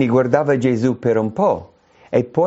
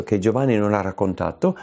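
usual speaking voice

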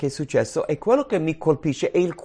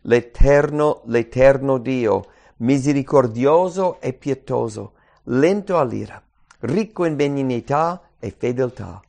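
proclaimed aloud; 4 dB louder than usual. Acted. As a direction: cry out the name solemnly. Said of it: "e gridò".

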